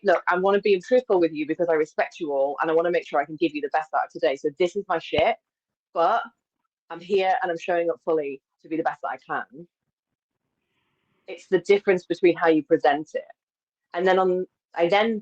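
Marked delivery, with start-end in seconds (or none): 0.0-9.7 open, honest and steady; plain sincere reassurance. Shown as a demonstration. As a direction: demo the truthful, respectful way. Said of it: "Or you can say".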